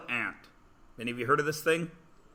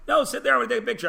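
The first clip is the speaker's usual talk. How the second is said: put-on higher-pitched, exasperated plea to a toddler; mock scolding dad; 8 semitones higher, 3 dB louder, much faster than usual. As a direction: tell your crying little girl off for the photo. Father scolds crying toddler.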